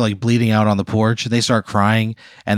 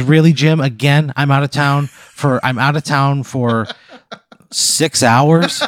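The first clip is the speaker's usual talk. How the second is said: higher, exasperated scolding; mock-furious wife, pitched up and incredulous; screaming at husband; 4 semitones higher than usual. Wife scolding husband over another party, mock screaming. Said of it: "starts, like, screaming at him".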